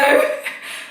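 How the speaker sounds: quick breathy giggle; a little self-conscious laugh; light laugh at herself; short laugh. Real, not acted. Laughs after rambling greeting.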